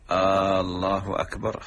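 wrong questioning "آه، الله أكبر" with a drawn question before Allah; wrong adhan. Shown as a demonstration. Teacher showing a wrong call to prayer with a questioning "آه". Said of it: "هذا غلط".

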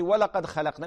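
ولقد said with an extra و before لقد; imitating the added waw. Sheikh mimics the caller's mistake, adding و to ولقد. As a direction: put the wrong و on ولقد, as the caller does. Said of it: "إذا قلتي".

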